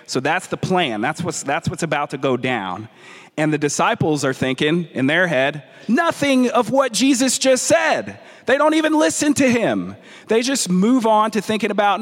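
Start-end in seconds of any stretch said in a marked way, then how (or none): 5.9-12.0 exasperated emphasis. Real, not acted. Disciples not listening, animated.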